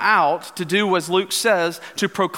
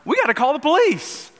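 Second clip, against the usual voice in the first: higher, lightly put-on Southern accent; mock panicky Southern deputy, pitched up; a hint of a Southern country boy, higher; 7 semitones higher than usual. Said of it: "in his southern voice".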